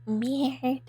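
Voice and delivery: halting try at "Weird." as French merde; attempted French R. Shown as a demonstration. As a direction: say "Weird." as merde, struggling with the throat R. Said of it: "I can't do it".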